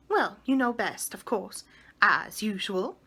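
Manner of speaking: a touch of lofty sarcasm; looking down her nose, mildly; haughty. Acted. Mary Poppins snubs Michael, lightly haughty. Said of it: "said Mary Poppins haughtily".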